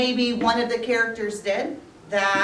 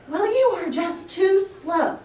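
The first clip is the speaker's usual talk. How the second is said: mocking hare; 9 semitones higher, 4 dB louder than usual. Hare mocks tortoise.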